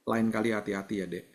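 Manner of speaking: mildly tender fatherly reminder; gentle words. Retold or imitated. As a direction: gently caution your child, without scolding. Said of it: "saya cuman mengatakan kata-kata lembut". (menasihati anak dengan lembut)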